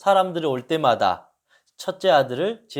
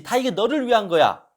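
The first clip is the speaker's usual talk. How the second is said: higher, sharp scolding insistence on 위한; angry mother; 6 semitones higher than usual. Retold or imitated. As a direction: force it on the child, losing patience. Mother snaps at whining son. (화난 엄마의 다그침)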